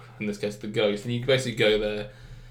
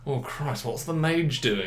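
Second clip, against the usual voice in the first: slow, laughing mock panic; mock flustered party leader; 4 semitones higher, slower than usual. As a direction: play the harried leader losing track of the mage. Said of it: "I don't wanna be like".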